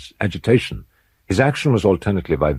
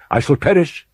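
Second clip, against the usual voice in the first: anguished Usher; 10 semitones higher, 3 dB louder than usual. Acted. Usher voiced in narrated tale.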